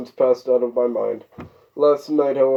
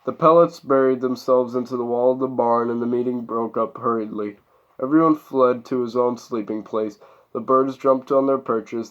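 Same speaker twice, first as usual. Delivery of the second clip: measured read-aloud narration; story narration. A narrator's reading.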